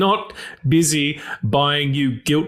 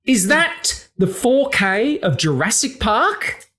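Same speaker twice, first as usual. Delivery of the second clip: slow whispered pointed question; pointed delivery; 8 semitones higher, slower than usual. Shown as a demonstration. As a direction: whisper it, leaning in on each word. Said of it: "be like really, like, pointy".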